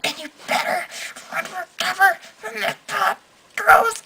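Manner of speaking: put-on sing-speak it like the defiant little boy; defiant kid voice. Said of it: "he's like".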